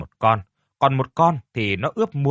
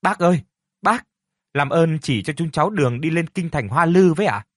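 high, loud call to a passing cart driver; boy calling out to a stranger for directions; 5 semitones higher than usual. Acted. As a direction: shout to him from the roadside, pleading. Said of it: "Phúc kêu lớn".

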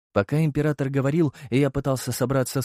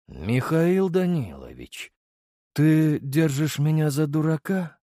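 slow, rising, menacing question; a cold accusation; threatening emperor; 5 semitones higher, slower than usual. Acted.

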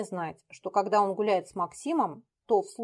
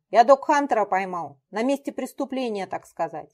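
triumphant; 5 dB louder than usual. Acted. Triumphant after capture.

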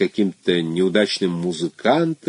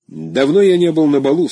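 friendly; 7 semitones higher, 5 dB louder than usual. A narrator's reading. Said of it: "сказал он дружелюбно".

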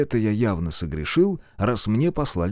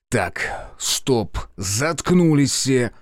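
barking; 2 semitones higher, much slower than usual. Acted. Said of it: "рявкнул я".

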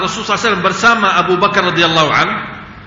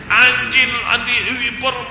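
higher-pitched mock insult; retold cursing; 5 semitones higher, slower than usual. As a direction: imitate someone hurling abuse from behind. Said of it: "dia caci maki saya".

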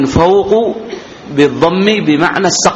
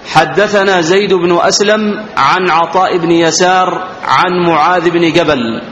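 measured, slightly raised reading tone; formal hadith reading; 3 semitones higher than usual. Acted. Teacher reads the chain to students, formal recitation. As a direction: read out the chain of narrators formally.

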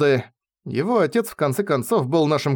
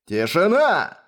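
raised pitch, understated thunder; thundering command; 4 semitones higher, slower than usual. A narrator's reading. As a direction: demand silence with authority. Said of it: "прогремел голос из коридора". (властно, словно гремя)

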